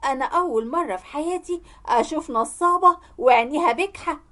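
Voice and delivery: acted angry retort; yelling back. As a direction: fire back an insult, half-shouted. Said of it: "وزعقت زي ما هي بتزعق معايا".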